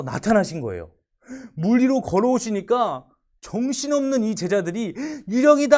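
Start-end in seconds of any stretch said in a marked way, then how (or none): 5.3-5.8 loud, high panicked yell; scared shout. Acted. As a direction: cry out in sudden fright. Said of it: "하고 놀라면서 외쳤던 거죠". (놀라서 외치는 소리)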